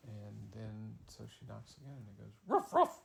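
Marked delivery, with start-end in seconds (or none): 2.5-3.0 loud high yappy bark; dog bark. Acted. Dog behind the door barking at the girl, loud yap.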